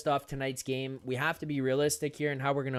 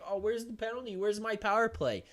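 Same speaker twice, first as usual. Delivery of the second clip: mock whining complaint; 5 semitones higher than usual. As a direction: mimic players whining at the refs. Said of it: "start turning around freaking out".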